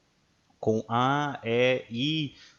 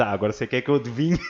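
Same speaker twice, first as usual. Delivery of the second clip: quoting the exasperated student; faster than usual. Retold or imitated. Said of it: "E eu disse".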